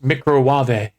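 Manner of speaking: "microwave" as "mee-cro-wah-vay"; joke mispronunciation. Shown as a demonstration. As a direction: sound out "microwave" with a final "vay". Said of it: "than hear it pronounced microwave".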